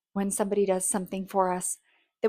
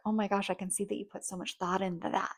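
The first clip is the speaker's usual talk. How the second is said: sincere thanks; 6 dB quieter, faster than usual. Shown as a demonstration. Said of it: "any sincere comment you can say is like".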